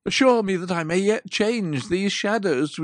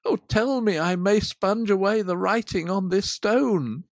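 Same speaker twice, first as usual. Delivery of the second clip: louder, anguished vow; agonized pleading; 5 dB louder than usual. Acted. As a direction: Scrooge swearing to change, in agony. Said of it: "In his agony".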